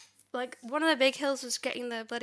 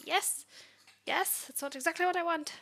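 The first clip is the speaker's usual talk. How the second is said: excited; 5 semitones higher than usual. Real, not acted. AI finally proposes fix.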